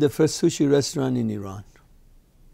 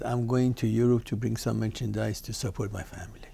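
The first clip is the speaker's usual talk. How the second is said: put-on hushed Turkish accent. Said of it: "In a different accent, Turkish accent".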